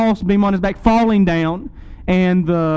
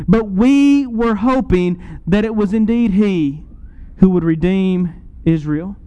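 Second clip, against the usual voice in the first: understated disappointment, slowing into the words; mild disappointment. Acted. Disciples telling of their lost hope, mildly disappointed. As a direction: let hope sink gently, with pauses. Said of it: "You hear the disappointment of these two disciples".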